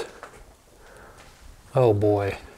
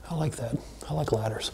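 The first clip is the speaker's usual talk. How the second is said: soft pleased whisper; 9 dB quieter than usual. Real, not acted. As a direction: whisper it to yourself. Quiet delight while exploring.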